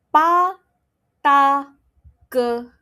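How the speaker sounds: Pa, ta, ke with no puff of air, crisp and firm; unaspirated p t k. Shown as a demonstration. Teacher demonstrating first row to students, unaspirated. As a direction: say Pa, ta, ke clean, no breath. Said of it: "I'm going to say the first row".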